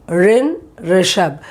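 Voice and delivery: Rin, Rishabh said slowly and clearly; slow pronunciation demo. Shown as a demonstration. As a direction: spell out Rin then Rishabh. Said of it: "you know the pronunciation of".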